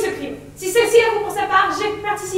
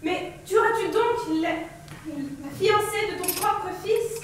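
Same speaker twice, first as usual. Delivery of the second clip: slow, soft, stricken plea; quiet pleading; 5 dB quieter, much slower than usual. Acted. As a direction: beg him softly and slowly. Ismene pleads for the bride.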